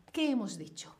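muttering to herself under her breath; thinking aloud in a whisper; whispered to self. Real, not acted. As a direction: whisper the question while thinking.

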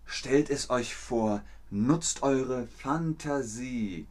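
slow, measured game master; lightly voiced game master inviting you to imagine. Game master telling the players, slow and measured.

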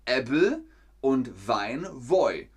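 Hessian pronunciation of Äbbel and Woi, slowly; Hessian dialect words. Shown as a demonstration.

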